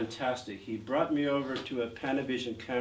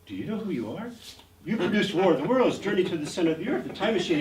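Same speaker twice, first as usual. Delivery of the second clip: eager showing off; 6 semitones higher, 5 dB louder, faster than usual. Retold or imitated. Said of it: "to show my intelligence".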